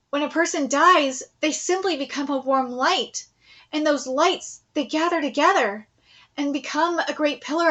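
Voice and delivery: quietly grave, a hint of a formal general; lightly voiced solemn general. General counsels grieving Nay Sama, lightly voiced and solemn. Reads the general's speech aloud.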